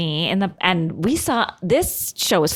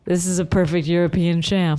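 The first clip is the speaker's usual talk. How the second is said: flat, bored delivery; unenthusiastic; 3 semitones lower than usual. Retold or imitated. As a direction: say it with zero enthusiasm. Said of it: "say so unenthusiastically".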